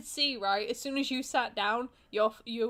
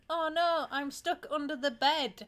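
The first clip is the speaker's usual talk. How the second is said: mock porn actress; 6 semitones higher than usual. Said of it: "like, women".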